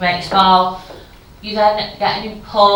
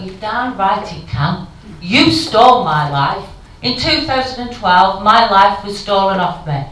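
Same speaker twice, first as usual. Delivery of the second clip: angry retort; 3 dB louder than usual. Acted. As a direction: throw it back at the message. Answering the message in anger.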